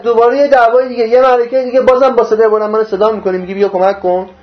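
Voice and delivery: mildly indignant retold complaint; imitated scolding, pressing on; acted reproach. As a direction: lay out a grievance as the wronged person. Voices Moses reproaching the follower.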